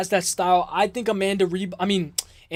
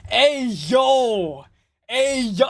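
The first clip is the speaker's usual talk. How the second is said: high-pitched, drawn-out reaction; shocked exclamation; 4 semitones higher, 3 dB louder, much slower than usual. Real, not acted. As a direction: cry out, taken aback by the chat. Reacts to outrageous chat message.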